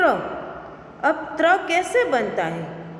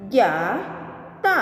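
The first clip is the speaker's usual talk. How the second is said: slow reading; 3 semitones lower than usual. Shown as a demonstration. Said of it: "जैसे कि".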